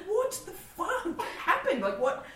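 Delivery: high, slow, laughing disbelief; mock panic. Hearing the radio bit overseas, high laughing panic. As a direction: freak out through laughter.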